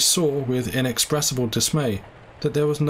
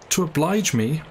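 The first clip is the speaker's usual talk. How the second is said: raised mock astonishment; cried out; 5 semitones higher than usual. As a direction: throw it back, higher. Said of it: "cried Wolfe".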